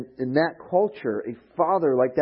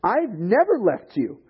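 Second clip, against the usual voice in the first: put-on whiny raised protest, jealous older brother; jealous complaint; 5 semitones higher, 3 dB louder than usual. Older brother complaining to his father, mock jealous whine. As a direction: complain higher and louder, like a sulky sibling. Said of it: "he gets all jealous".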